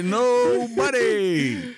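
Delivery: very slow, stretched recorded voice; button voice. Pretend. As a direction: play it like a novelty sound button. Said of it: "one of these buttons that say".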